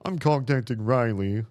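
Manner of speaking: high, fast, whiny panic. Acted. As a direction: whine it like a frightened scientist. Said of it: "he seemed to say in a whiny voice".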